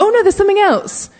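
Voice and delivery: imitating an eager storyteller who can't stop; sudden afterthought. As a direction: blurt it out as if you just remembered. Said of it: "And then it's like".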